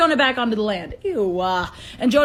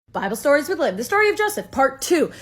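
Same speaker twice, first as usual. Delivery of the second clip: announcer title. Acted.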